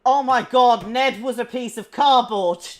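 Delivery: high-pitched, dismayed exclamation; shocked realisation. Acted. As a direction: cry out as the truth dawns, pitch climbing. Sudden mock realisation about Ned.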